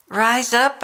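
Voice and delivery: emphatic call to rise. Acted. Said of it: "I say to you".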